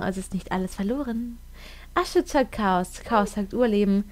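measured reading of an inscription; solemn inscription read. Acted. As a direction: read it like an ancient text. Reads game inscription aloud.

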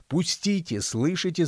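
high-pitched indignant squeal. A narrator's reading. Angry old man demanding to pass, squealing. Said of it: "заверещал он".

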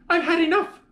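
high-pitched exasperated outburst; exasperated mother. A narrator's reading. Mother who has had enough of her child, exasperated. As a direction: cut the child off, fed up. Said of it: "my mother said".

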